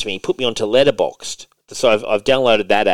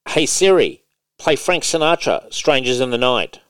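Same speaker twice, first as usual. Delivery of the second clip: raised, carefully clear command to Siri; commanding the phone again; 4 semitones higher than usual. Shown as a demonstration. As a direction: speak it out firmly for the phone to catch. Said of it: "let's try again".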